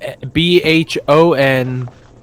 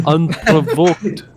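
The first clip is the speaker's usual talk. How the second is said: slow, drawn-out mock Russian; hammed-up Russian, deliberately slow; Russian accent; 3 semitones higher, slower than usual. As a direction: stretch each syllable in a put-on Russian accent. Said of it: "How do you do a Russian accent?".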